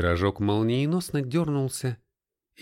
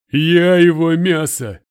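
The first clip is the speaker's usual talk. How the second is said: high, loud slow howl; 8 semitones higher, 13 dB louder, slower than usual. A narrator's reading. The bitten Russian howls that he is the meat, loud. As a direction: wail it in despair. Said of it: "взвыл русский".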